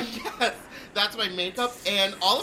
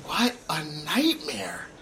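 whispering; slower than usual. Acted. After losing all his luggage.

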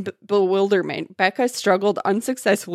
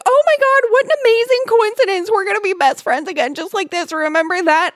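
high, loud, mock-excited squeal; gushing imitation; 12 semitones higher, 5 dB louder than usual. Pushy girl claiming Becca as best friend, mock gushing. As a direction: gush it breathlessly over the top, easing slightly. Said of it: "she's like".

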